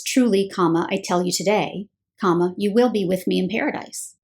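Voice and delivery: "I tell you today" as one phrase, break, then "you will be with me"; pause after today. Shown as a demonstration. Teacher giving the correct reading, pausing after today. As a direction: land on today, then pause before the promise. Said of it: "the correct way to punctuate this sentence is".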